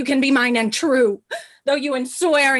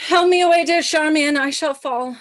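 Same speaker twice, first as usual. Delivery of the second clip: fake faint; 5 semitones higher, 5 dB louder than usual. Cleopatra fakes fainting.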